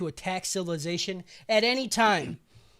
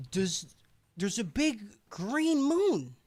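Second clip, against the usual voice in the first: slow mystic voice; slower than usual. Retold or imitated. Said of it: "Goblin Slayer's like".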